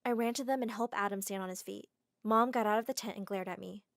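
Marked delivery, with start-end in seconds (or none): none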